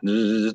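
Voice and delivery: buzzy zzz sound effect; imitated zip noise. Shown as a demonstration. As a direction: make a quick buzzing zip noise. Mimics a price chart moving.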